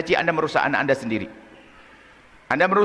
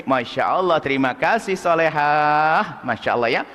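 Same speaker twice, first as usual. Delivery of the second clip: gentle mother. Retold or imitated. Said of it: "seorang tua yang baik".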